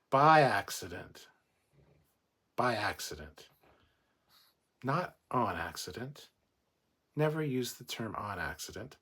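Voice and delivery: emphatic correcting rant, stressing BY and ON; real mini-rant with pointed pauses; pedantic rant. Real, not acted. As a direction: drive the correction home, punching key words. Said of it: "went off on a little bit of a rant".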